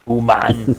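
"Human" said as "uman", no h sound; dropped-h human. Retold or imitated. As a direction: tease by saying "Human" like "yooman" without the h. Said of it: "I love how I said human instead of human".

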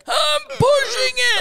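high, slow strained push; compressed voice. Shown as a demonstration. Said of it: "compressing and you're like".

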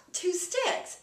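slow, high questioning echo; drawn-out, rising query; puzzled query. Retold or imitated. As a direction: repeat it loudly in disbelief. Retold puzzled check of her words.

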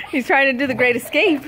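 high shrieking laughter; laughing hard at the puppy's escape. Real, not acted.

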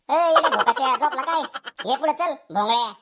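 teacher's sharp yell, loudest at the start; shouting. Acted. Teacher calls sleeping pupil up front, shouting. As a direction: yell to rouse a dozing pupil. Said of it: "एवढं का ओरडायला लागलाय".

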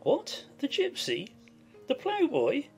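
high, swooping incredulous questions; astonished cry. A narrator's reading. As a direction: exclaim each question in disbelief, pitch leaping. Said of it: "he cried".

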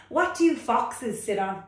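high, loud, protesting frog voice; reluctant frog. Acted. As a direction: whine back like a stubborn little frog. Frog character.

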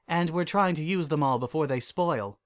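lifted regal character voice; Celestia, composed princess. Acted.

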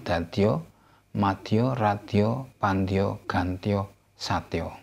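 first vowel of "tatio, matio, ratio" an open ah; "ratio" said "rah-tyo", like the rest of the list; A before tio. Shown as a demonstration. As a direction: keep "pandio, gantio, satio" on an ah first syllable. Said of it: "penultimate syllable is pronounced a".

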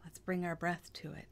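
calm, hushed meditation voice; guided meditation. Acted. Guide softening listeners into stillness, calm meditation voice. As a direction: lead them gently into stillness, leaving long pauses.

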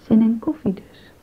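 whisper. Acted. Lovers' quiet flirtation.

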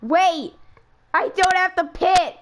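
high, loud and slow, thrilled at the lucky caution; excited yelp. Real, not acted. Racer thrilled the caution means no pit stop, excited high shout. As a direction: cheer like the break just fell your way. Caution saves him from pitting.

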